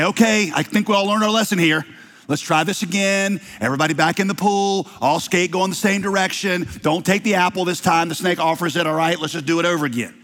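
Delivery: mock-casual God giving everyone a do-over; breezy God voice. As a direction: play God waving off the whole mess like a game reset. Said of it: "give us a stern talking to".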